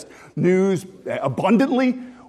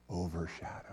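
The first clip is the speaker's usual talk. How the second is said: Overshadowed said low and far softer; hushed word; 13 semitones lower, 18 dB quieter than usual. Shown as a demonstration. Preacher repeating his favourite Greek word, hushed. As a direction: let Overshadowed fall almost silent. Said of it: "I just want you to hear that word overshadow".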